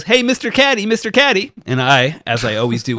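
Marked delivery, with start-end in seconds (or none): 0.0-1.5 high, sing-song "Mister Caddy" call; mocking high caller. Smug golfer calls his caddy high and sing-song. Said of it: "he goes".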